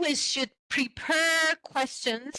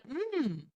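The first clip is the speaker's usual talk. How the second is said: demo hum; 3 semitones higher, 5 dB quieter than usual. Shown as a demonstration. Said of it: "sounds like".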